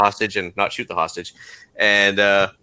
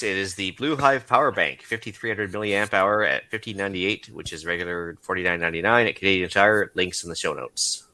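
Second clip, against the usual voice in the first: safety nerd voice; 5 dB quieter than usual. Pretend. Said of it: "In my best safety nerd voice".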